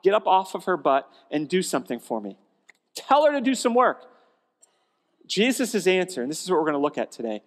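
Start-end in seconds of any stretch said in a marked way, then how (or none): 2.9-4.1 frazzled demand. Retold or imitated. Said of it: "Martha venting to Jesus".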